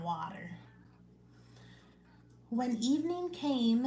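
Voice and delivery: steady, measured Bible reading voice; scripture reading. Acted. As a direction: read the Gospel passage aloud to the listeners. Reads scripture aloud on live.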